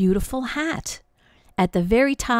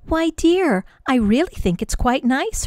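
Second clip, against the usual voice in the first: kindly; 6 semitones higher than usual. Acted. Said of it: "her mother said kindly".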